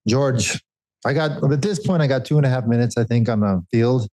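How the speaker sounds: put-on a light take on his sporting director's accent; mildly imitating the director's accent over the race radio; Johan's accent. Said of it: "Is that my accent?".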